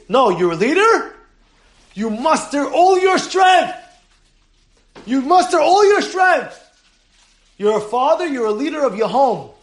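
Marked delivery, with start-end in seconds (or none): 1.9-3.8 rousing call. Real, not acted. Rabbi exhorting the congregation. 5.1-6.6 rousing call. Real, not acted. Repeat of the exhortation.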